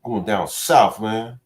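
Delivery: hammed-up Scottish, ending in a high loud what's up; goofy fake Scottish voice; mock Scottish accent. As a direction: play a bad Scottish accent for laughs. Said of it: "a Scottish accent".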